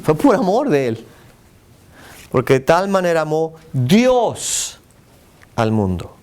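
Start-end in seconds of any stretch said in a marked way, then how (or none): 2.3-6.2 "Dios" drawn out slowly; stress on DIOS. Shown as a demonstration. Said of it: "¿Qué dice eso?". (énfasis lento en "Dios")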